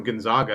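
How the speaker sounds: "Gonzaga" with an open "ah" in the middle; Spanish-style Gonzaga. Retold or imitated. Storyteller addresses the rival fan, "Gonzaga" with a broad ah. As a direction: say "Gonzaga" as gon-ZAH-ga. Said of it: "It would be Gonzaga".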